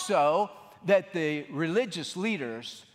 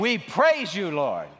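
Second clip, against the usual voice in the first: shouted call; 5 dB louder than usual. Shown as a demonstration. Pastor leading congregation in praise, shouting. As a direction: cheer it out for the crowd to echo. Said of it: "You, you just shout after me".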